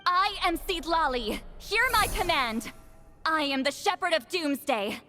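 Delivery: solemn, measured chant to the spirits; ritual incantation. Acted. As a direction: intone each line like a sacred rite. Citlali continues the incantation.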